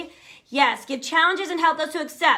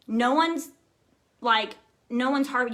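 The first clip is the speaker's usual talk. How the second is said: normal talking voice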